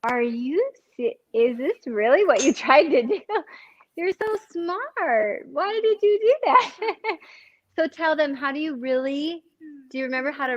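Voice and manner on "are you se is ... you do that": mock disbelief. Mom teasing her daughter about the egg, mock-incredulous. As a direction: rib her gently for cutting the egg. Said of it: "And I was like".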